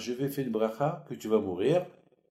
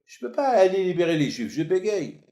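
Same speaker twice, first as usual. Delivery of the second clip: pleading Moses; 4 semitones higher, 5 dB louder than usual. Retold or imitated. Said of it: "Et il a dit à Hachem".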